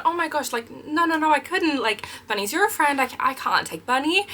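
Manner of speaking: high, gushing princess protest. Retold or imitated. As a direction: sweetly turn down the gift in character. Princess refusing child's gift.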